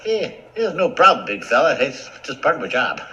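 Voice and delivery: quick, offhand little-guy voice; cheerful brisk mouse; breezy mouse. Acted. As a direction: toss it off fast as no big deal. Mouse shrugging off thanks.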